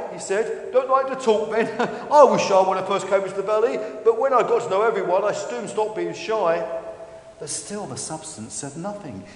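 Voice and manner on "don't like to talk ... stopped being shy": a hint of a chatty dinosaur, quick; lightly voiced Stefan, chummy. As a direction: chatter on to a shy stranger.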